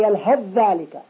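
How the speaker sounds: "يلهث ذلك" as yalhadh-dhalik; assimilated tha. Shown as a demonstration. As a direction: merge th into a long dh in "يلهث ذلك". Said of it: "ولا نقول". (إدغام ثاء "يلهث" في ذال "ذلك")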